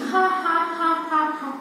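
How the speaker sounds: spelled-out mock laugh, evenly spaced; demonstrated laugh. Shown as a demonstration. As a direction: act out laughing for children.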